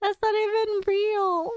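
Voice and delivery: high, slow and amused disbelief; incredulous. Real, not acted. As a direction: drag it out in mock outrage. Hearing February thirty-third.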